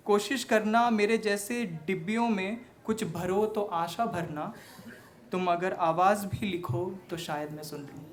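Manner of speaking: earnest verse in measured phrases; heartfelt stage recitation; poetry recital. Acted. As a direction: recite line by line, lifting each opening and letting the endings fall. Recites sister's words as verse.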